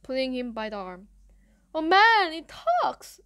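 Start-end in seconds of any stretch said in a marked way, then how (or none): 1.7-3.2 high scream of mock amazement. A narrator's reading. Bully shining flashlight in a face, loud scream. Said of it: "screamed Eddie".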